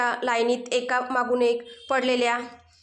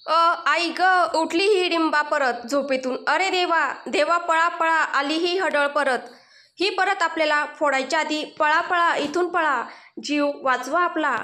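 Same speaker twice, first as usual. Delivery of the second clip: panicked shouting; 3 semitones higher than usual. Acted. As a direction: yell in panic to run from the witch. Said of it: "घाबरत दचकत जोरात ओरडत".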